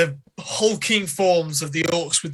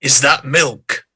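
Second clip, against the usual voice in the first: slow, louder orc voice, pitched lower; suspicious orc; 4 semitones lower, 5 dB louder, slower than usual. Acted. Orc eyeing the cook's dish, suspicious and slow. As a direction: question it slowly as a wary orc. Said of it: "as the angry orc".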